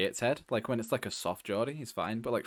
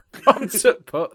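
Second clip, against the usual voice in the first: high, loud Yorkshire echo; broad Yorkshire with a stopped "t'"; mock Yorkshire accent; 7 semitones higher, 9 dB louder, much slower than usual. Echoing friend's impression of him, mock Yorkshire accent. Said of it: "That's my classic".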